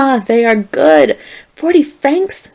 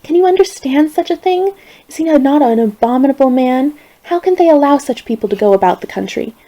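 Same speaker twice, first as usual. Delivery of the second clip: higher, louder, furious venting; indignant outrage; 5 semitones higher, 5 dB louder than usual. A narrator's reading. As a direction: pour out your outrage. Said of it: "She was furiated".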